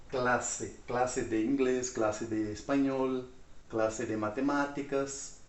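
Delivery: measured Spanish-language demonstration; teacher modelling the Spanish words; Spanish pronunciation. Shown as a demonstration. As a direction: say it as Spanish, with clear final e's. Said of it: "Em espanhol, eles falam".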